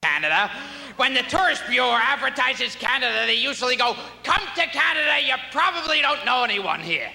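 a hint of a squawking comedian; Gilbert Gottfried impression. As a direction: rant about Canada like a cranky comic. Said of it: "every time Gilbert Gottfried's performs".

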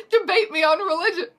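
high, loud mock screech; articulate screech. A narrator's reading. Dean challenging Voldemort to debate, articulate screech. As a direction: screech the challenge, every word clear. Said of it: "Dean Thomas screeched articulately".

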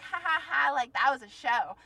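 high, loud mock ha-ha-ha; mocking laughter. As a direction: imitate someone laughing to provoke. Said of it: "She was on the ground laughing".

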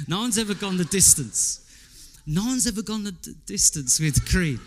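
lightly slurred Rocky, slowing at the end; a hint of the punch-drunk boxer; Rocky impression. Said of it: "he sounds like he's half drunk".

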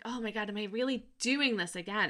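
laughing, rising retelling of nervous doubt; mock dread. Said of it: "I had a lot of fear".

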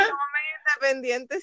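echoing the phrase through a laugh; amused echo, chuckling throughout. Real, not acted. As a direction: laugh the words out as you repeat them. Laughing while echoing co-host.

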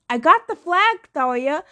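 high, loud, defiant retort; defiant shout. A narrator's reading. Percy shaking the flag at Thalia, defiant shout. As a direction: throw it back in her face.

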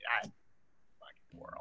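whispered, slow curse; muttered aside. Real, not acted. Comedian whispering a curse at the world. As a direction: breathe it out under your breath.

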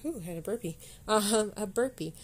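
after a burp; right after burping. Real, not acted. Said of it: "excuse me".

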